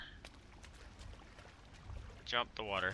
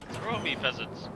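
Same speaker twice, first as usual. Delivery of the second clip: roaring tyrant king; 5 semitones higher, 4 dB louder, slower than usual. Pretend. Commands followers as a king.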